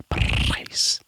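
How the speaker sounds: "Price" with a purring rolled R; rolled Scottish R. Shown as a demonstration. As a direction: roll the R of "Price" Scottish style. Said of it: "I sound like a purring cat".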